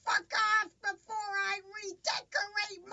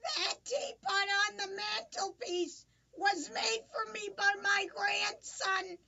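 put-on crying old woman.

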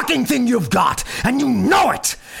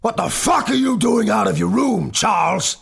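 loud, higher, enraged father; roaring; 9 dB louder than usual. A narrator's reading. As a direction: roar at the child. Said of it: "his father roared".

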